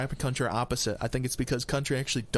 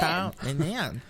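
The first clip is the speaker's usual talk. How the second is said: slick used car salesman; much slower than usual. Retold or imitated. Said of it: "used car salesman".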